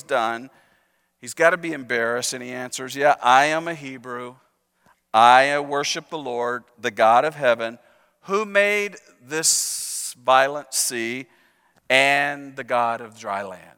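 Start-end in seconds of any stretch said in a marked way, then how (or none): 3.0-13.7 slow, low, mopey half-awake Eeyore drawl. Retold or imitated. Ashamed Jonah answering the sailors, lightly Eeyore-like. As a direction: sound barely awake and ashamed. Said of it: "almost in Eeyore's voice".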